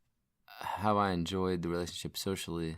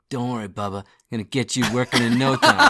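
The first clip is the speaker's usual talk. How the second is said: reassuring mechanic voice, raised and laughing; soothing the car; 4 semitones higher, 11 dB louder than usual. Retold or imitated. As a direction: coax the car like a patient. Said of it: "talking to it".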